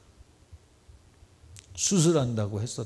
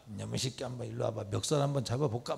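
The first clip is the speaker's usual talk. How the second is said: mock wife's threat; 8 dB quieter, faster than usual. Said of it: "막 이러면 안 돼".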